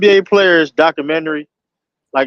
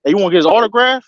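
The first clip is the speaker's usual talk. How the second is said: mock coach teasing; 3 semitones higher, faster than usual. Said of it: "I'll be that type of coach".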